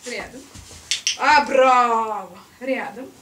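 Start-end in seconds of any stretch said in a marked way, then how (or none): 1.2-2.4 громко и радостно; порадуйся успеху собаки; восторженная похвала. Real, not acted. (громкое «браво»)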